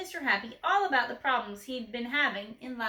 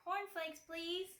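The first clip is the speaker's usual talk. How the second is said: soft, higher, barely voiced; whispered; 6 semitones higher, 11 dB quieter, slower than usual. A narrator's reading. Mister Quiet whispering his order to the grocer. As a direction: breathe it out timidly. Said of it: "he whispered".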